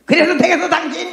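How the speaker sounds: mock stern scolding; harsh rebuke. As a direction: scold them like a harsh pastor. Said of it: "이런 말도 하면 안 된다고".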